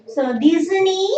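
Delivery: teacher drawing out "Disney" long; elongated Disney. Shown as a demonstration. Teacher showing students the long vowel, slow and drawn out. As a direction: stretch the vowel in "Disney" slowly.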